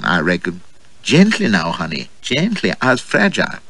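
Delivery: lightly voiced flirtatious American lady, teasing; a hint of a playful American belle; coquettish American woman. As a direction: play her as a coy, teasing flirt.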